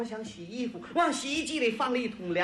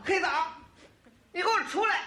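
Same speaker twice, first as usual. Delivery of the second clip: high-pitched mock yell of an angry wife; imitated spouse hollering in a rage; 7 semitones higher, faster than usual. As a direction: call someone out across a yard, furious. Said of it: "我爱人气得在院儿里就喊呐".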